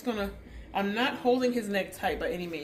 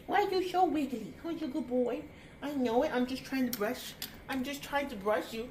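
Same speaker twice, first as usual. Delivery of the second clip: pet talk; 5 semitones higher than usual. Real, not acted. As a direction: coax a wriggly dog in a high voice. Baby-talking to the wriggly dog.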